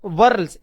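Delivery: व्हर्ल्स said as werls with no h sound; teacher models व्हर्ल्स with a silent h. Shown as a demonstration. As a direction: say व्हर्ल्स like pearl with a w, the h left out. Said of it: "एच जो है वो silent हो जाएगा".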